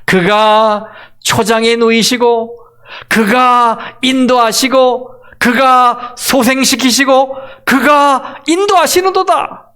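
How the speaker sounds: 매 구절 "그가"를 천천히 힘주어, 점점 높게; 반복되는 "그가"를 또박또박 강조하며 고조; stress on 그가. Shown as a demonstration. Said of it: "그가"라는 주어가 매 문장마다". ("그가"마다 힘주어 천천히 높여 가며)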